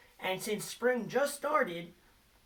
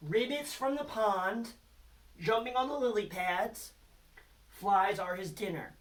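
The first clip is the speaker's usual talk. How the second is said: reading the poem. Shown as a demonstration. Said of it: "here is our haiku about frogs".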